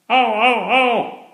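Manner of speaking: high, sharp yelps of pain. Acted. Frog caught in the trout's mouth, yelping in pain. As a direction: squeal as if bitten.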